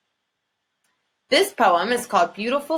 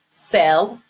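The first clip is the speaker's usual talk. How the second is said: syllable by syllable, each beat pushed louder; split into syllables; 3 semitones lower, 4 dB louder than usual. Shown as a demonstration. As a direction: say it in three separate chin-drop beats. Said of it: "count how many times your chin drops".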